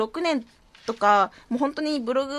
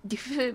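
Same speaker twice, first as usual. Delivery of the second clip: otaku snicker; 6 dB quieter than usual. Pretend. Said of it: "そういう喋り方を勉強してまして".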